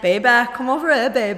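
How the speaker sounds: put-on broad local British call to baby; regional British accent. Shown as a demonstration. Playing a partner calling baby over, regional British accent. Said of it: "say it in your accent".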